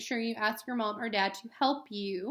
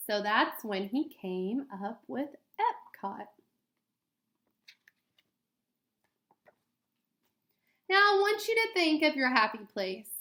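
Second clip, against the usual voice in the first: clear, gentle storybook read-aloud; reading to children. Acted. Teacher reading a picture book to students, gentle read-aloud.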